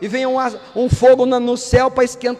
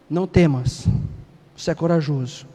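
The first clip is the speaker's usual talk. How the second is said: deep divine voice; 11 semitones lower, 3 dB quieter than usual. Retold or imitated. God answering timid Gideão, deep and calm. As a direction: speak as God, deep and steady.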